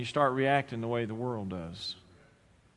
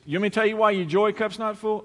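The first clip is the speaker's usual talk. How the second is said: preacher's challenge; 7 semitones higher, 6 dB louder than usual. Retold or imitated. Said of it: "this nut preacher stands up here and says".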